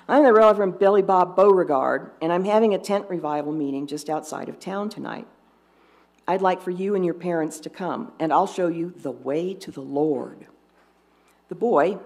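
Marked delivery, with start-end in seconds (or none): 0.1-10.5 put-on Southern preacher accent. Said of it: "I should be doing an accent, shouldn't I?".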